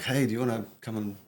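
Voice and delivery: put-on high, pleading kid voice; too calm creepy doll. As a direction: beg like a lonely child. Adult asking for friends.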